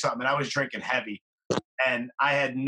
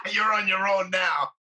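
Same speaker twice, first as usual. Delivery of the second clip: shouting; 4 semitones higher than usual. Real, not acted. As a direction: call it out laughing. Listener shouts the punchline.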